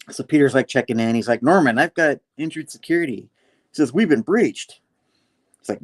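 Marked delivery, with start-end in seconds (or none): 1.4-3.3 acted alarm, pitched up; higher, pressing voice of warning; urgent alert. Peter raises the alarm. 3.9-4.8 high, loud acted alarm; pressing, raised voice of warning; urgent alert.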